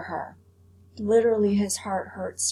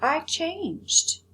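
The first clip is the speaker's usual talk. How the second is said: retelling Edward's plea; 3 semitones higher than usual. Retold or imitated. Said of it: "He says".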